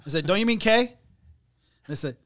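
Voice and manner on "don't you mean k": high, loud retold correction; mock emphatic correction. Friend retelling the Taco Bell order, emphatic correction.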